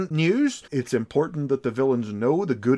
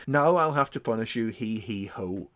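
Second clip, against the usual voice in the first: sinister villain; 3 semitones lower than usual. Shown as a demonstration. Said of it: "if performed in a certain way".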